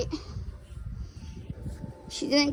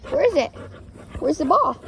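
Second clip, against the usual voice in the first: playful raised question; louder teasing call; 2 semitones higher, 5 dB louder than usual. Real, not acted. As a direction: tease the dog with a loud ask. Teasing dog about ball.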